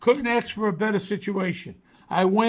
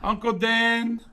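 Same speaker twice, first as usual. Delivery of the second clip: talking to a dog; 3 semitones higher than usual. Real, not acted. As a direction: coax the dog to greet him. Showing his dog on camera.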